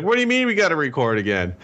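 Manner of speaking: high-pitched, fast incredulous protest; retold irritation. Podcaster retells his reaction to re-recording, irritated and incredulous. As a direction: replay your irritated disbelief, pitch leaping up. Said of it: "You know how irritated I am".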